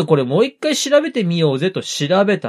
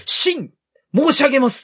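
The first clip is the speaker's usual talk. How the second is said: higher, formal court servant call; humble retainer; 8 semitones higher than usual. Retold or imitated. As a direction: announce yourself like a loyal vassal. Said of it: "で、私そこで、".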